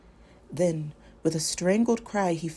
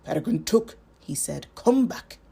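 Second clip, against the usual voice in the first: a firm, louder call to wake him; firm wizard call; 5 dB louder than usual. Acted. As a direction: summon him back, gentle but firm. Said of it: "Gandalf held him gently and firmly".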